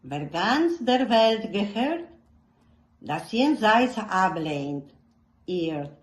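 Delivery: slow, measured poetic reading with long pauses; solemn German verse reading, unhurried and earnest; poem recitation. Acted. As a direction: recite it like a lament to your own heart.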